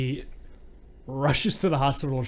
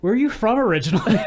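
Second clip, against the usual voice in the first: laughing; 8 semitones higher, 7 dB louder, faster than usual. Retold or imitated. Quoting Barry on phone, laughing.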